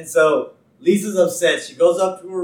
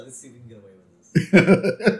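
laughing mock writer; 2 semitones lower, 6 dB louder than usual. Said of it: "I'm pretty sure that was a".

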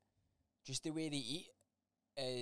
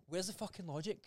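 higher, incredulous retold rant; exasperated disbelief; 5 semitones higher than usual. Uncle retelling his rant about family food rules, exasperated. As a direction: throw up your hands at the family.

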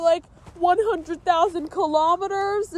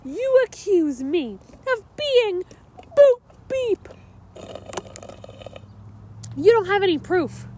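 indignant; 3 semitones higher than usual. Acted. Accused character protests indignantly.

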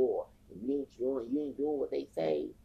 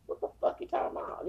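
incredulous outburst; 3 dB louder than usual. Real, not acted. Heated rant at Latinos.

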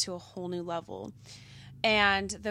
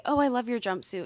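gushing compliment; 4 semitones higher, 5 dB louder, faster than usual. Retold or imitated. Voicing a stranger's compliment to boyfriend.

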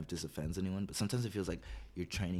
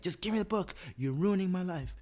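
put-on very high, louder kid's wail; whiny kid voice; 11 semitones higher, 3 dB louder than usual. Kid to the adult holding his book, high loud whine.

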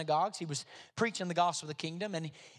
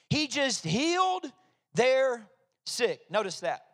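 louder, higher-pitched preaching with punched repeats; emphatic preaching; 5 semitones higher, 8 dB louder than usual. Real, not acted. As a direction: drive the repetition home, stretching the last phrase.

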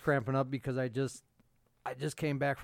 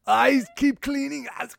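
high mock voice; 12 semitones higher, 8 dB louder than usual. Mocking voice, laughing banter.

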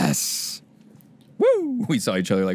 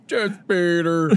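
Bader impression; 5 semitones higher, much slower than usual. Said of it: "This is the rest of the episode".

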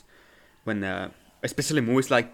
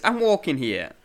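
higher, louder mock New York street call; Adam Sandler; 4 semitones higher, 5 dB louder than usual. Host quoting the star walking around in New York, mock street call. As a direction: imitate a New Yorker on the move. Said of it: "He says".

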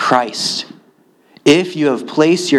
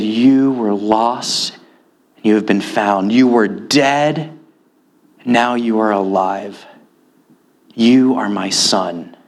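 tender father; 3 semitones lower than usual. Acted. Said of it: "He said".

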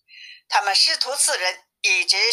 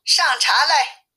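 mild call for a servant, raised pitch; 4 semitones higher than usual. Acted. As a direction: call to the boy without a full shout. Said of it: "道士就喊". (略微提高嗓音喊人)

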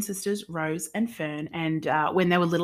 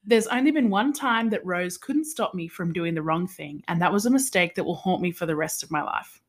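measured, scripted synopsis reading; book blurb read-aloud. Real, not acted. Host reading a novel's synopsis to her sister, read-aloud.

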